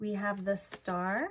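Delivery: ordinary delivery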